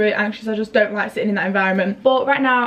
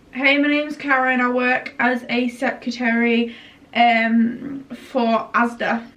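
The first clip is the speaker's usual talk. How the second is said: ad voice; much slower than usual. Pretend. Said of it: "That's the kind of ads".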